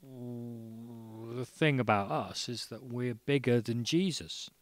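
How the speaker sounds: lightly put-on band-member accent; hint of Liverpudlian, imitating a band member; band-style Liverpudlian accent. A band boasting to a barman, mock Liverpudlian accent. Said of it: "in that band-like sort of way".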